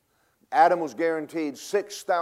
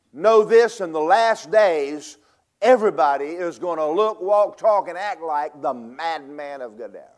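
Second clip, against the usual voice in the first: preaching shout; 5 dB louder than usual. Real, not acted. Preacher warning of madmen.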